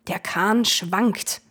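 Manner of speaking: drawn-out warning across the boat; old ferryman calling out. Acted. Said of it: "rief der Alte".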